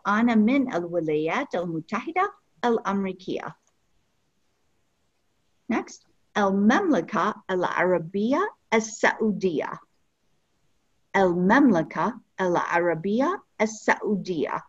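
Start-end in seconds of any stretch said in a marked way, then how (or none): 6.4-14.6 slow clear repetition. Shown as a demonstration. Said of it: "teacher models the phrase".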